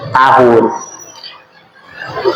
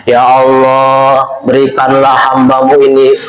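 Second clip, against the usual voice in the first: mock prayer; 3 semitones lower than usual. Mock prayer for thousand years.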